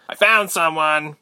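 loud, high, drawn-out soldier's call. A narrator's reading. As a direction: shout the discovery to your squad. Soldier calls out to others.

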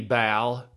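"Bal" said with a voiced B where pal belongs. Mimicking the president's slip, "Bal" with a B. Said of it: "He says Bal".

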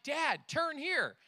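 mock backseat-driver kid, drawn out; a hint of a child giving orders; imitated bossy kid. Voices bossy backseat-driver kids.

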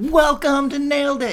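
big booming show welcome, drawn out; loud announcer intro. Acted. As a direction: announce it like a host. Redoes the show intro, louder.

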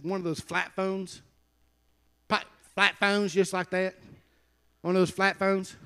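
imitated Kentucky southern accent. Preacher imitating his Kentucky cousin, southern accent. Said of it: "I wish I talked like that".

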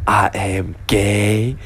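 slow, drawn-out stand-up character voice; homeless man. Retold or imitated. Homeless man introducing himself to comedian, slow mock announcement. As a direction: draw each word out in a mock announcement. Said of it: "homeless person was trying to figure out".

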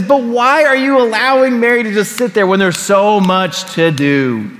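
exasperated. Retold or imitated. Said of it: "gets exasperated at Mary and cries out".

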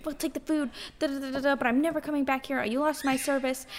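high, grudging imitation with babbled filler; mock huffy customer. Friend retells a Karen giving in at the bar, mock huffy. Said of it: "And she was like".

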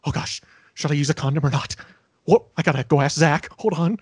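fast, hushed, flustered nerd; lightly voiced jittery nerd; nervous Screech. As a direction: babble like a panicked geek. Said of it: "I have a feeling Screech might run out".

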